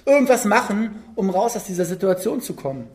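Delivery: lightly acted urgent rallying; frantic activism. Petrus urging the disciples to bail water, mildly frantic. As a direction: urge the crew on, rising in pitch. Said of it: "so ein bisschen in seinem Aktionismus".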